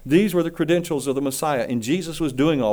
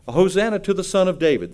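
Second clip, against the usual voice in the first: crowd proclaiming; 5 semitones higher than usual. Retold or imitated. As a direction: call it out like the crowd on the road. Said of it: "they said".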